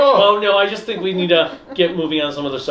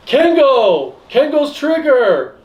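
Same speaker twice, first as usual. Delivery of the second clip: higher, slowed exclamation; character exclamation; 7 semitones higher, 3 dB louder, slower than usual. Acted. Acting out a show's character making an announcement, exclaiming. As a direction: call it out like an anime character. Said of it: "he goes".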